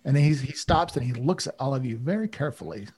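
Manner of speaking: ordinary talk, nothing marked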